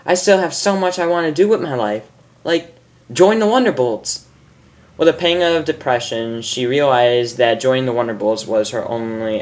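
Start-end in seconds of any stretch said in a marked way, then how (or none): 0.1-4.3 high and quick; hurried. Acted. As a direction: rush through her dreams. Character's hurried speech.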